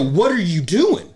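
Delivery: mock baffled voice, high and slow; high slow question. Retelling his drunk self asking, high and slow. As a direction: ask it drawn out and high. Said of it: "And I go".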